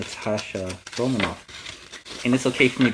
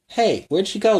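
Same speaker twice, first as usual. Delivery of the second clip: guard searching; 8 semitones higher, 4 dB louder than usual. Acted.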